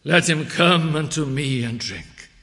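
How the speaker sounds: loud, slow proclamation; open invitation. Retold or imitated. Preacher offers Christ's open invitation to thirsty, calling out. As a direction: call it out broadly, easing down in pitch. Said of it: "how open it is".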